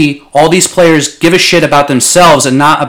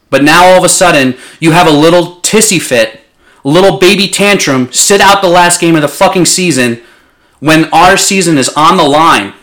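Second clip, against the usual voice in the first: sharp, angry, raised voice; heated rant; 4 semitones higher, 3 dB louder than usual. Real, not acted. Fan ranting at Antonio Brown, heated and angry. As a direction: tear into him, really heated. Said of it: "Things got a little heated".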